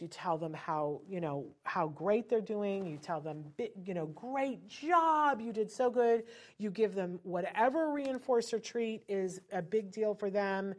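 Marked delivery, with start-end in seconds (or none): 4.1-6.2 big praise. Shown as a demonstration. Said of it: "They get the biggest praise".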